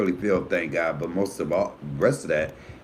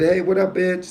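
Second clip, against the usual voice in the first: friendly greeting; 9 semitones higher than usual. Retold or imitated. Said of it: "I have a lot of friends".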